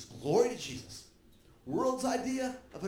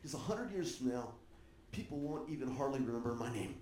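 mildly mopey retold lament, sinking lower and softer; self-pitying; 4 semitones lower, 5 dB quieter than usual. King telling his general why he cries, mildly self-pitying. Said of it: "he's having a pity party".

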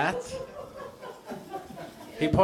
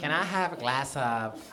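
gay voice. Shown as a demonstration. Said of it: "there's like a lisp to it".

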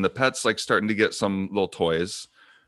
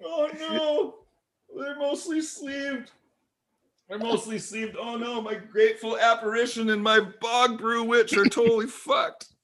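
real dismay; 13 semitones higher than usual. Real, not acted. Mourning his spat-on cards.

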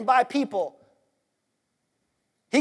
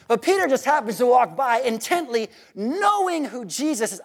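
real excitement, stretching out KNOWING; worked up. Real, not acted. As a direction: get carried away by the story. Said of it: "why I'm so worked up".

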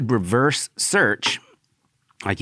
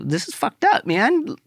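exasperated protest; 13 semitones higher than usual. Retold or imitated. Telling her the party is messed up, exasperated. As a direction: pitch climbing much higher in disbelief.

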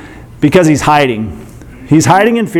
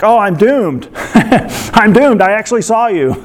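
higher voice, cracking up at fake panic; laughing mock doom; 5 semitones higher than usual. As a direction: wail I'm doomed through your own giggles. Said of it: "he's like".

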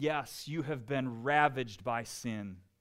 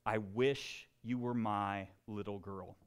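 lower, hushed teacher's words; soft mock whisper; 5 semitones lower, 5 dB quieter than usual. A narrator's reading. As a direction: say it softly, as if into a child's ear. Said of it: "and whispered".

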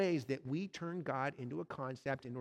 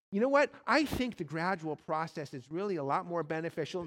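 bargaining ghost; 4 dB louder than usual. Acted. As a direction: try to talk your way out.

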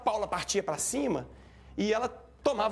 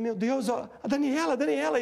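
higher, louder alarmed calling; re-enacted alarm; 7 semitones higher, 4 dB louder than usual. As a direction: call her name in mounting alarm. Revive o susto ao vê-la caída. (susto encenado, chamando aflito)

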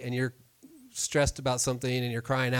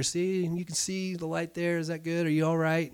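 put-on higher, gentle coaxing to a child; reassuring dad; 4 semitones higher than usual. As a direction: soothe a scared little girl. Father reassuring scared daughter.

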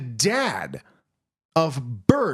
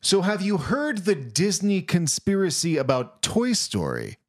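hook delivery; 4 semitones higher than usual. Acted. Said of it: "you gotta start off with a hook".

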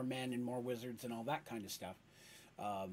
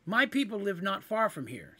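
higher, earnest kender pleading; higher voice, bargaining earnestly; 5 semitones higher, 4 dB louder than usual. Acted. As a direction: make the case to a monster. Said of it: "said Polly".

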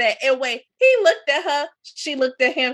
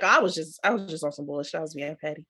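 mocking excuse; 7 semitones lower, 8 dB quieter, faster than usual. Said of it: "and be like".

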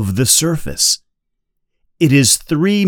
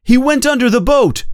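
urgent shout; 13 semitones higher, faster than usual. A narrator's reading. Hooper shouting during attack.

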